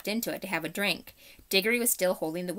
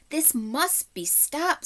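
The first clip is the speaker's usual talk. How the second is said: put-on urgent girl voice; 9 semitones higher, much slower than usual. A narrator's reading. Polly urgently calls Diggory.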